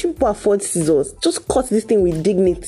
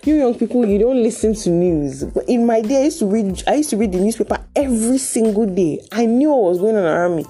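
preachy invigilator lecture; 4 semitones higher than usual. Retold or imitated. Invigilator lecturing students in exam.

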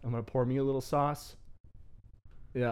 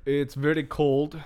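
slow, put-on Russian accent; slower than usual. Fake Russian guest tells interviewer about Russia, Russian accent. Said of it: "You're coming in and out of a accent".

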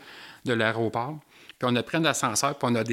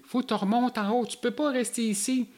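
very high voice; 11 semitones higher than usual. Retold or imitated. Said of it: "avec une voix très aiguë".

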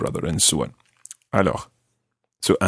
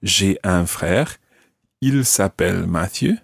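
model sentence. Shown as a demonstration. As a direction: teach the correct form deliberately. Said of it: "You must either say".

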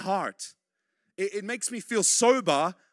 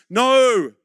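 1 loud emphatic no; 6 semitones higher, 12 dB louder than usual. Real, not acted. Preacher's emphatic denial.

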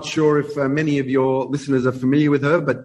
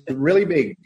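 Ed Sullivan impression. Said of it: "as Ed Sullivan says".

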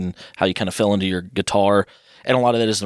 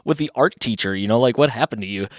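higher-pitched retold scolding; exasperated mom; 5 semitones higher than usual. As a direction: demand an explanation like an upset mother. Mom demanding what he did.

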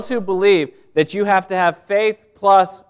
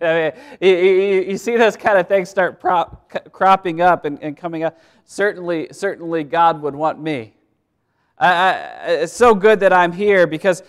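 a smug, louder put-on voice of self-importance; mock proud believer; 2 semitones higher, 5 dB louder than usual. Pastor mocking a proud churchgoer, in a smug put-on voice.

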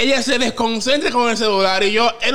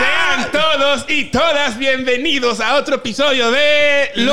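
announcer intro; 3 semitones higher, slower than usual. Acted. Host intro announcer read.

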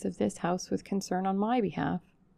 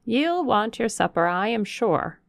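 lightly voiced homely northern servant; a hint of a country housekeeper gossiping; old Yorkshire servant; 4 semitones higher, 6 dB louder than usual. Hannah speaking to the ladies.

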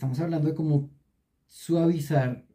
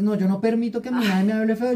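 louder, higher sharp scold; mock harsh scolding; 6 semitones higher, 5 dB louder, faster than usual. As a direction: mimic her as a harsh scolder. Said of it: "yo no lo dije en ese tono". (imitación burlona, regaño fuerte y agudo)

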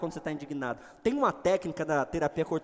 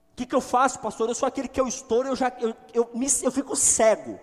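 higher and louder, a flustered believer pleading with the pastor; mock hothead congregant; 8 semitones higher, 8 dB louder than usual. Congregant begging the pastor for advice, in a flustered raised voice. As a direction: play the angry churchgoer asking for help.

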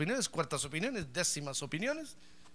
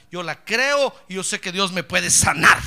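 pleading woman; 13 dB louder, slower than usual. Retold or imitated. Sick woman pleads for healing.

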